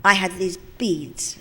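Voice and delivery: very slow, with long pauses; suspenseful storytelling. Real, not acted. Actress telling audience of her many takes, suspensefully. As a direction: stretch the count out for effect. Builds suspense before anecdote's climax.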